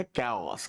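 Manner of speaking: कैओस said in two syllables, "kay-os"; Indian pronunciation. Shown as a demonstration. Teacher models the word for the class, कैओस as "kay-os". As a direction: say कैओस as Indian learners read it. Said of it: "हम लोग पढ़ते हैं".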